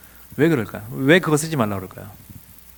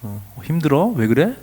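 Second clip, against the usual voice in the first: calm concern; 2 semitones lower, slower than usual. Shown as a demonstration. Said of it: "이렇게, 이렇게 안 해요".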